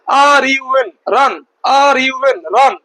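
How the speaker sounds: slow letter-by-letter spelling, then the whole word. Shown as a demonstration. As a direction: spell it out slowly. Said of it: "একসঙ্গেই বলতে হবে". (ধীরে ধীরে বানান, তারপর পুরো শব্দ)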